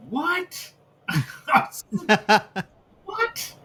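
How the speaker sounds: squeaky high disbelief with a laugh; can't believe he apologized; incredulous what. Real, not acted. Baffled that Frankie apologizes, incredulous and very high.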